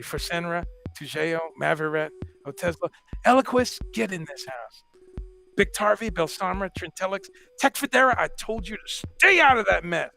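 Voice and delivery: hammed-up listing of drug names like a mother nagging; mock drug-name recital. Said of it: "hence my parody of, of certain names".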